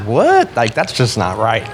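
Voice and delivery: startled inner reaction; shocked what. Retold or imitated. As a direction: jump way up on the first word in disbelief. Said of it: "I'm like".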